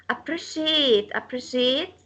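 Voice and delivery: "appreciate" with second syllable PRE stressed. Shown as a demonstration. Teacher repeats a stress example, PRE stressed in "appreciate". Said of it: "stress comes on the second".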